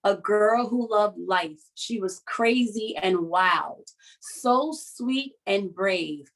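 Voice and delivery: slow, measured poem reading; slow heartfelt memorial poem; poem recital. Acted. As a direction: recite it gently, letting each line land. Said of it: "And it goes like this".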